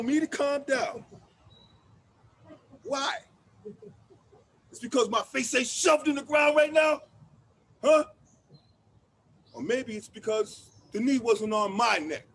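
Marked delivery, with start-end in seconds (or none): 4.7-8.0 loud, rising indignation; angry shout. Acted. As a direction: throw the accusation back at him. Angry monologue about police.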